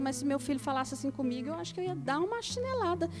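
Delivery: soft, amused muttered remark; a quiet comic mother's aside; joking aside. Retold or imitated. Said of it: "resposta sempre intrigante que eu falava". (comentário baixinho e brincalhão de mãe)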